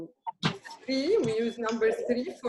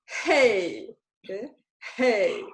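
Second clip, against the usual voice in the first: mild call for attention; calling hey; slower than usual. Shown as a demonstration. Teacher shows calling someone's attention. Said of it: "you say".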